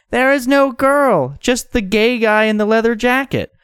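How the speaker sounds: high, drawn-out woman character; baffled neighbour woman. Acted. Woman questioning someone talking to nobody, high baffled voice.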